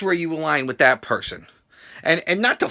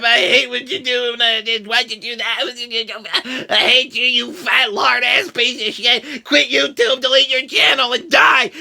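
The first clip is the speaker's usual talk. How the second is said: mock hater voice; 5 semitones higher, slower than usual. Imitating hateful YouTube commenters, mock yelling. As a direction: read hate comments in a hammed-up troll voice. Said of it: "I can hate comments all day".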